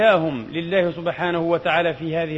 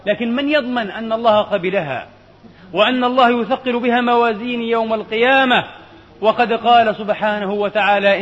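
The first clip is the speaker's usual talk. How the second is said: raised, ringing sermon delivery; higher, louder pulpit voice; impassioned preaching; 4 semitones higher, 4 dB louder than usual. Acted. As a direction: preach it out with mounting force. Preacher rises to full force.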